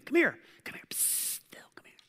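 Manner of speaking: conspiratorial hiss calling someone over; whispering. Retold or imitated. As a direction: beckon secretly in a hushed voice. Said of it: "'cause it's this whisper thing".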